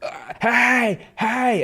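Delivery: high sharp hey at the dog; high alarmed hey; calling hey. Retold or imitated. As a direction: warn the dog off. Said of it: "And I'm like".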